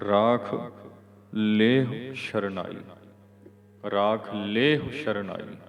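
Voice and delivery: ਲੇਹੁ with long "lay" and brief "hu"; slow model reading, short final u in ਲੇਹੁ; short-ending ਲੇਹੁ. Shown as a demonstration. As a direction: stretch the le of ਲੇਹੁ, clip its hu. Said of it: "ਇਹਦਾ ਲਘੂ ਉਚਾਰਨ ਕਰਨਾ ਹੈ".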